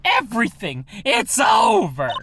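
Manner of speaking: high, loud, drawn-out melodramatic wail; mad screaming. Acted. Client wailing in the lobby, hammed-up screaming. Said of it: "your client there screaming like a mad lad".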